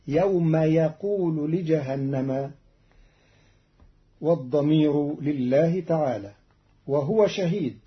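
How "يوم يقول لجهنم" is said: يقول said with ya, slowly; ya instead of nun. Shown as a demonstration. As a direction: stress the ya of يقول. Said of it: "فتصير عنده". (يقول بالياء)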